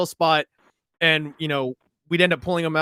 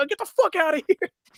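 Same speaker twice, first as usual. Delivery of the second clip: higher-pitched yelling; 13 semitones higher than usual. Retelling warning friends on bikes about a tuk-tuk: retelling own yell. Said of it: "I start yelling".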